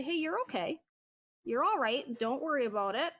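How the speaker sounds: gentle, reassuring voice to a scared dog; soothing. Shown as a demonstration. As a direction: calmly reassure a nervous dog. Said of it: "I speak to them in a very soothing voice".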